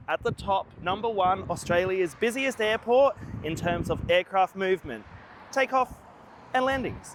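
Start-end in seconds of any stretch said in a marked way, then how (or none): 5.5-7.1 much higher, playful sing-song; sing-song emphasis. Acted. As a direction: lift it up like a punchline. Repeats airport fact punchline.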